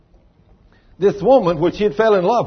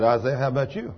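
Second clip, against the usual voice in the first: God; 4 semitones lower, 5 dB quieter, faster than usual. Retold or imitated. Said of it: "the Lord speaks to Isaiah in an audible voice".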